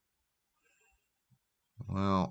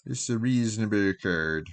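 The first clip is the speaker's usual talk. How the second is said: put-on weird, impromptu Jamaican accent; 3 semitones higher, 3 dB louder than usual. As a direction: lapse into an odd Jamaican lilt. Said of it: "Weird Jamaican accent".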